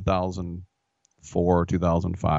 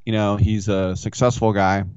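normal talking voice

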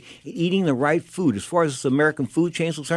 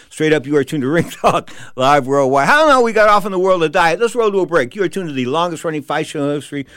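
punchy show-ID read going into a break; host tossing to commercial; radio host break; 3 dB louder than usual. Acted. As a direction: sell the show name like an announcer. Host reads station ID, break.

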